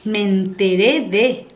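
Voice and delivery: slow, drawn-out 'me enteré de'; sorpresa insinuada. Shown as a demonstration. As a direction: draw it out like surprising, forbidden gossip. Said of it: "algo que es sorprendente". (me enteré de, lento y con intriga)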